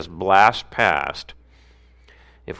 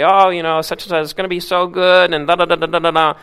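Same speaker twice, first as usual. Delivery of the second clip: higher, louder fake enthusiasm; mock boss hype; 9 semitones higher, 5 dB louder, faster than usual. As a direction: sell it like a cheesy boss. Boss hyping at a meeting.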